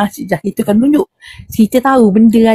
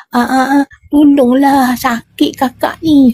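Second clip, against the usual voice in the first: higher, slow whiny plea of pain; a hint of hammed-up suffering, slow and higher; fake pleading; 3 semitones higher, slower than usual. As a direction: play the spirit faking pain to win pity. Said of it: "dia buat berlakon dah".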